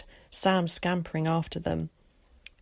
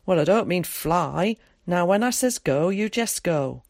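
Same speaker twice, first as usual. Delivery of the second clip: lightly voiced countryman, slightly firmer and louder; Tom; 5 dB louder than usual. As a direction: give instructions with a touch of rural dialect.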